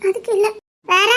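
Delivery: holding back tears; small tearful denial. Acted. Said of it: "எதுக்கு கண்ணை கசக்கிட்டே போற".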